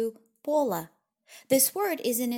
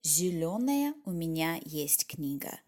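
зелёная pulled away from книга, marked; awkward split word order; 4 semitones lower than usual. Shown as a demonstration. Teacher showing the worse order with зелёная far from книга. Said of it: "rather than".

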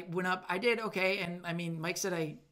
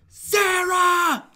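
calling out; 12 semitones higher, 12 dB louder than usual. Retold or imitated. Calling manager across store.

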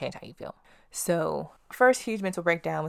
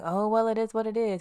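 imitating dad; 7 semitones higher than usual. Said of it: "a very famous saying of my dad".

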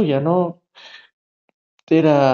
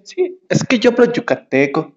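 a light Yucatecan lilt on "Sí, es que yo hablo yucateco", lifted a bit higher; mock Yucatecan accent; 7 semitones higher than usual. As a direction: imitate the girl's sing-song Yucatecan Spanish. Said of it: "Me empezó a hablar así".

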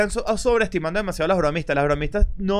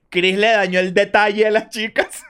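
laughing; 3 semitones higher, 4 dB louder than usual. Real, not acted. Reading funny comment, laughing.

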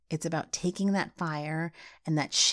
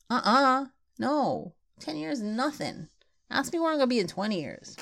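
higher, fast, fired-up protest; worked up; 5 semitones higher than usual. Real, not acted. Host ranting to listeners about midlife plans, worked up and fast. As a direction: push back hard, getting carried away. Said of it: "I'm just getting all worked up".

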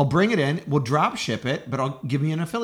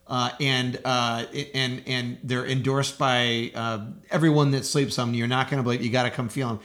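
mattress store ad. Pretend. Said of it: "Here's an ad for a mattress store".

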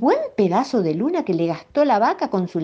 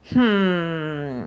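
suspicious murmur. A narrator's reading. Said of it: "murmuró".

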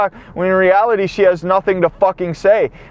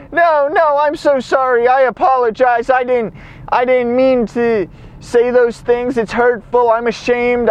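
higher-pitched, hurried-sounding mock begging; retold desperate apology, pitched up; imitated pleading apology; 5 semitones higher than usual. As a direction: plead to stop someone walking out. Acted frantic apology to stop her leaving.

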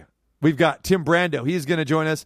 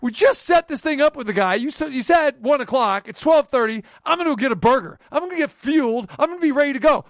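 heated outburst about punctuality; indignant shout; 10 semitones higher than usual. Real, not acted. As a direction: vent real frustration. Indignant rant at Crawford.

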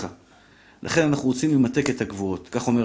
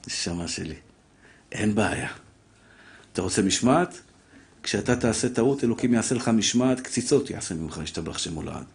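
low and much softer, ominous calm; quiet divine warning; 4 semitones lower, 5 dB quieter than usual. Acted. God quietly answering a man who wants discipline, ominous. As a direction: speak as God, softly threatening.

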